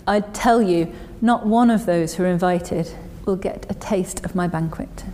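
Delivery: measured reading, settling at each phrase end; slow scripture reading. Real, not acted. Preacher rereads the banquet story to the congregation, slow scripture reading. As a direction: read the parable aloud, unhurried, with long pauses. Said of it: "I'll read it slowly".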